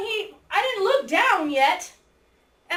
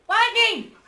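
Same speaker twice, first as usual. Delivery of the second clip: higher, punchy exclamation; emphatic confirmation; 5 semitones higher, 4 dB louder than usual. Real, not acted. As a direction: echo the answer with drama. Confirming student's answer dramatically.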